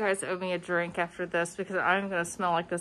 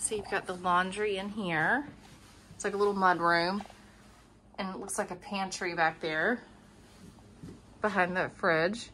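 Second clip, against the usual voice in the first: muffled. Real, not acted. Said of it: "I'm sorry I'm muffled".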